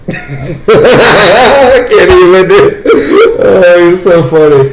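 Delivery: can barely get it out for laughing. Real, not acted. Cracking up at the story.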